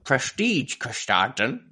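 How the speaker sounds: slow, hammy stab at a Dutch accent; attempted Dutch accent. Shown as a demonstration. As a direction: attempt Dutch pronunciation, word by word. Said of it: "try and do it in the accent".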